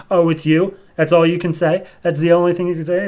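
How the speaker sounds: "Oh, it's you?" thrown back with a rising, indignant tone; mock the other's line back, disbelieving; incredulous echo. Heroine throwing her clone's words back, indignant rising question.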